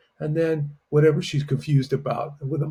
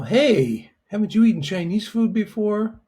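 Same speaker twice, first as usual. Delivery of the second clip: confused question; 6 semitones higher than usual. Shown as a demonstration. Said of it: "It's kind of like confusion".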